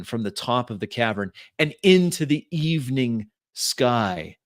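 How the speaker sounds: dramatic action narration, punching key words; game master's scene setting. A narrator's reading. Game master telling players of the ship's escape, dramatic narration. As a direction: narrate the escape with lively, measured emphasis.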